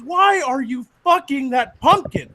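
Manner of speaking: high, slow cop's demand; incredulous demand. Acted. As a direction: space it out in disbelief. Cop demands explanation.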